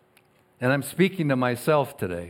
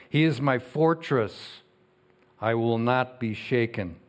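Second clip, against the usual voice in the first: scripture reading. Acted. Pastor reading Psalm sixty-two to the congregation, measured and solemn. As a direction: read each line like a proclamation.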